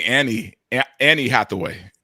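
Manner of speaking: put-on hesitant Latino-accented Annie Hathaway. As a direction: guess the name in a Latino accent. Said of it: "in a very heavy Latino accent".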